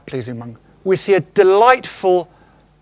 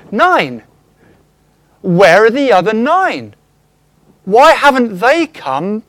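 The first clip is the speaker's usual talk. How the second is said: Jesus asking, disappointed; 4 dB louder than usual. Retold or imitated. Jesus asking where the nine are.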